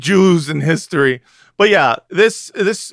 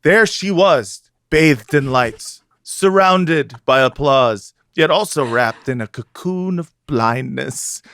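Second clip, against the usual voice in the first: dramatic reading. Acted. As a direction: read it like a grave editorial. Reads article aloud dramatically.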